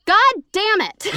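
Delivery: high, loud, slow exasperated curse; mock angry curse. Friend cursing after grandpa interrupts, mock angry. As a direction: drag out the annoyed curse. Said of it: "She got so mad at me".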